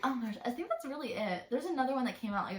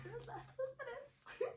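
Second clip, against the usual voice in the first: laughing through it; 13 semitones higher, 13 dB quieter, much slower than usual. Retold or imitated. Retelling a trolled reader.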